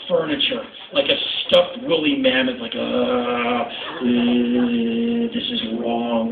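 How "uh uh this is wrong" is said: slow, building to a high panicked cry; each repeat more alarmed, climbing up; rising panic. Retold or imitated. Frozen, panicking on the belt.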